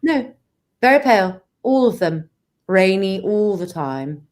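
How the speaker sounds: put-on measured British accent, drawing out the end; British vampire accent. Vampire agrees there's little sun, British accent. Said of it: "be a British vampire".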